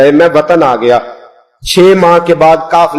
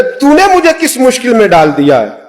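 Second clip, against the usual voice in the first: quarrelling elder; 6 semitones higher than usual. Retold or imitated. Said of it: "झगड़ने लगे".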